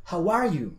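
"are" loud and high, falling after it; stress on are. Shown as a demonstration. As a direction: hit "are" hard in "How are you?". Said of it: "inténtale poner".

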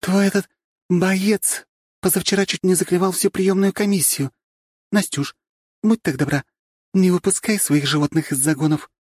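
put-on high, strict scolding girl; student council head. A narrator's reading. Council head scolding Nastya about the rooster, high stern voice. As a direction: tell her off with polite firmness.

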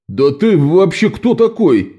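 shouted challenge. A narrator's reading. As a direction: yell it as a challenge. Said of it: "выкрикнул лейтенант". (выкрикнуть с вызовом)

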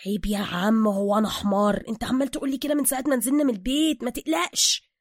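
rising pitch, quickening protest; indignant reassurance. Acted. Suka answering Bruce's warning, mildly indignant. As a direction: brush off the warning, a bit offended.

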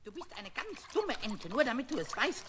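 angry. Acted. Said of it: "dann wurde er zornig".

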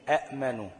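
أأمنوا with both hamzas stressed; original hamza form. Shown as a demonstration. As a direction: stop on each hamza in أأمنوا. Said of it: "كانت إيه؟". (أأمنوا بهمزتين)

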